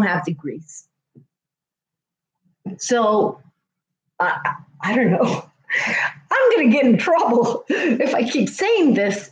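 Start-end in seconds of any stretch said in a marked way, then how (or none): 6.3-9.3 laughing aside. Real, not acted. Nervous joke about getting in trouble.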